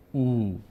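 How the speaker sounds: "او" as a long oo; long vowel. Shown as a demonstration. Teacher naming the long vowels, held "او". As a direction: hold "او" as a steady oo. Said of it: "صدای کشیدهٔ".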